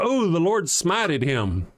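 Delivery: slow, drawn-out smug believer; mock pious theist. Streamer imitates believers who gloat at him, slow and mildly smug. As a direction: drag it out with a light mock piety. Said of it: "I love it whenever they go".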